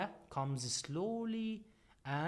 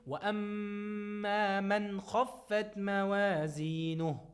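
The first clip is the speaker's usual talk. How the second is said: chanted tajweed recitation, held and measured; Quran recitation; 4 semitones higher, 3 dB louder, much faster than usual. Shown as a demonstration. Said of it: "So we say".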